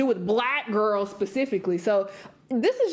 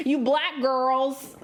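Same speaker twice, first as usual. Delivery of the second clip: put-on very slow "You black girls" stressing black; mocking quote; 3 semitones higher, much slower than usual. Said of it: "that sounds weird".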